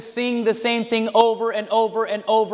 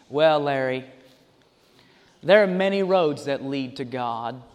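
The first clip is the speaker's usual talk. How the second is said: imitating Joel; 7 semitones lower than usual. Pastor mimics the preacher answering Larry King, low and smooth. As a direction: lightly voice the TV preacher's easy answer. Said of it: "Larry King says to him".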